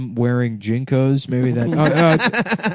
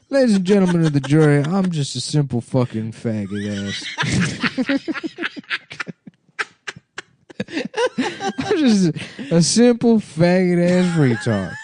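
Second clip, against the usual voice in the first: passionate closing argument; 4 semitones higher than usual. Pretend. Mock lawyer to the jury.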